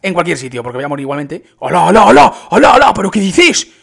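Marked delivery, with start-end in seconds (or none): 1.6-3.7 loud, high cries of disbelief; astonished shouting. Real, not acted. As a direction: shout it out, amazed, pitch climbing. Astonished at jump animation.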